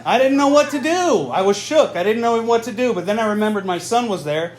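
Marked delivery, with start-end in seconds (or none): 0.0-2.9 shook outburst. Acted. Shocked comic outburst.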